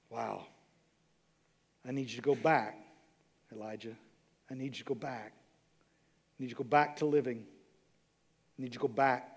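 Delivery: low, hushed instruction with long pauses; gentle divine command. Acted. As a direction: quietly urge someone to return. Voices God quietly addressing Elijah.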